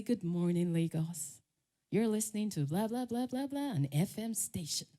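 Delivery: lightly put-on American presenter voice; a hint of an American DJ greeting listeners; American radio accent. Nigerian radio host imitating Americans, mild American accent. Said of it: "to talk like an American".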